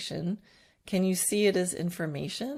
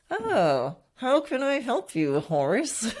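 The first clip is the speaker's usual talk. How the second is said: forced helpfulness through gritted teeth; through clenched teeth; 6 semitones higher, slower than usual. Retold or imitated. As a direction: grit teeth, fake the kindness. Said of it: "saying those words through clenched teeth".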